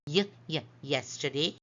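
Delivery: short, detached "y, y" leading into "yesterday"; sounding out Y. Shown as a demonstration. Teacher recapping the four sounds, sounding out "y, y, yesterday". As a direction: repeat the initial "y" alone, then say "yesterday". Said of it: "So we have".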